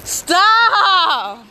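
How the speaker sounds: loud sharp stop; sharp shout. Real, not acted. Kids splashing near phone.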